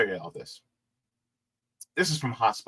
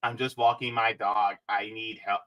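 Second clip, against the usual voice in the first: mock helpless whine; 7 semitones lower, 6 dB quieter than usual. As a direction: lower and softer, faking distress. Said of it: "mocking her".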